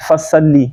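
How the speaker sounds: "فصلی" with a light s and flat a; quick, light "فصلی" as with sin; thin seen. Shown as a demonstration. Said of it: "یہ سین سے ہم پڑھ جاتے ہیں".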